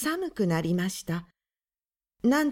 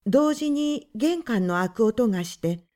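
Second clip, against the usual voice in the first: ordinary delivery, nothing marked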